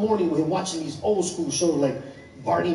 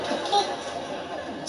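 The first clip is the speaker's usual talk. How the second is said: long, drawn-out breathy gasp of what; stunned disbelief; 14 semitones higher, 4 dB quieter, much slower than usual. Retold or imitated. Kid hears dad's knife pen idea, drawn-out disbelief. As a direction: stretch it out, too stunned to believe it.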